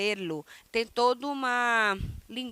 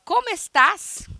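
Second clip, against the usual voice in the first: lively question; 9 semitones higher, 6 dB louder than usual. Shown as a demonstration. Teacher models a lively question.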